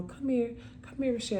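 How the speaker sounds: soft older-sister coaxing, retold; gentle coaxing. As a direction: quietly call a child over to help. Sister gently coaxing her to practice.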